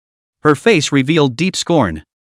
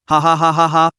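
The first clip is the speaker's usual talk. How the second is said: delighted laugh. A narrator's reading. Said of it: "with a delighted expression".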